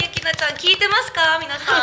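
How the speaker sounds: high, loud calling out. Acted. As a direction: call out to everyone. Calls out to listeners.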